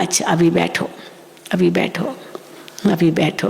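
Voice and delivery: low-key soothing, with pauses between repeats; softly retold reassurance, unhurried; calming, affectionate. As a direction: imitate a mother gently settling someone down. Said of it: "उसको उस समय शांत करके प्यार से बिठाया".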